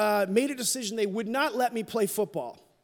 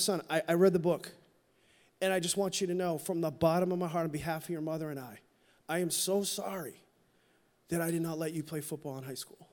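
soft, low, hushed father pleading; a hint of a father holding back tears; retold tearful apology; 4 semitones lower, 6 dB quieter than usual. Scene: father apologizing to grown son at restaurant, softly tearful. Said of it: "he's kinda welling up a little too".

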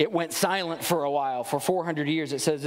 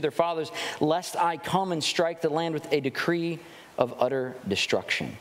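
scripture reading. Acted. Preacher reading Malachi to the congregation, solemn reading voice. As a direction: read the verses with measured gravity.

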